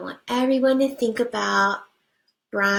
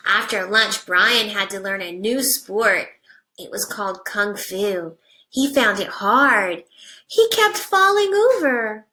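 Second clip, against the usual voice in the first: put-on reading to children. Teacher reading a picture book to her class, animated storybook voice.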